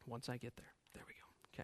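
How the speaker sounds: unvoiced whisper to himself; soft muttered aside. Real, not acted. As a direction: breathe it under your breath while turning pages. Muttering aside while finding the page.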